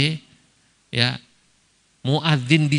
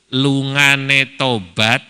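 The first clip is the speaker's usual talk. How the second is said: slow Javanese phrase; 3 dB louder, much slower than usual. Shown as a demonstration. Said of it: "Haji tomat itu kata orang Jawa".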